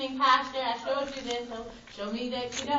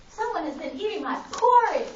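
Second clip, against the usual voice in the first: big loud voice; 5 semitones higher, 7 dB louder than usual. Acted. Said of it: "cried out in a great big voice".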